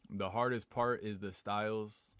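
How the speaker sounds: slow, heavy Russian-accented reading; thick, deliberate Russian accent; accidental Russian accent. Real, not acted. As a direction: read it out slowly as if Russian. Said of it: "I don't know why I read that in Russian".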